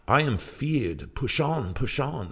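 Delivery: high, bright-spirited urging, pitched well up; cheerily. A narrator's reading. Hermit urging the pilot to row on, high and cheery. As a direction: cheer the frightened crew onward. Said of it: "said the hermit cheerily".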